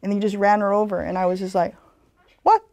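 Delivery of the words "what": loud, outraged "hell no"; indignant outburst. Retold or imitated. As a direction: call it out, loud and appalled. Outraged at tourists running over elder.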